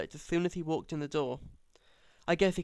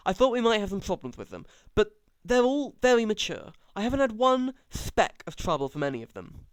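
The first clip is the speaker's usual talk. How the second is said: raised, heated father defending a neighbour; indignant defence; 6 semitones higher than usual. A narrator's reading. Father heatedly defending the Cullens to his daughter, raised and indignant. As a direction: stand up for the doctor, getting worked up.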